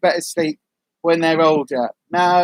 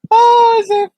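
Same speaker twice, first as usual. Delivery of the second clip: loud high laugh; 8 dB louder, slower than usual. Real, not acted. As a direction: laugh out, then a squeal. Big laugh.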